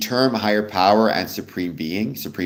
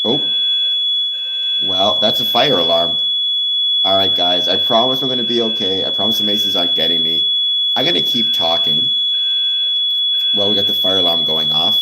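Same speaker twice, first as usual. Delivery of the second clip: raised voice over a blaring alarm; shouting over fire alarm; 5 dB louder than usual. Real, not acted. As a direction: talk loud and fast over the noise. Well, that's a fire alarm.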